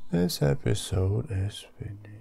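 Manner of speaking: whisper. Shown as a demonstration. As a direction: drop to a secret whisper. Repeats the line, then whispers.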